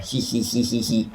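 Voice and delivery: soft, mock "he-he" giggle; sneaky snicker. Man slipping out after his plot, sneaky snickering.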